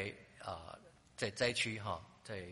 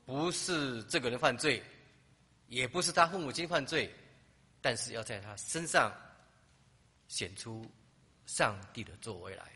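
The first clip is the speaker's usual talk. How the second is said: proclaiming Jesus' words; 5 dB louder than usual. Acted. Jesus answering his disciples about the blind man, proclaimed loudly. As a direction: declare it like a pronouncement from the pulpit.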